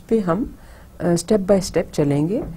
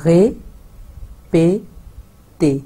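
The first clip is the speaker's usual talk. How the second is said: répéter stretched very slowly; drawn-out demo; much slower than usual. Shown as a demonstration. Teacher slowly stretching répéter for learners. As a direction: hold each sound of répéter long. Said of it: "इकट्ठे बोलते हैं".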